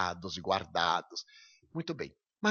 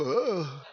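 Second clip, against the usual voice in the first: retold yell; 5 semitones higher, 3 dB louder than usual. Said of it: "E eu dei aquele berro".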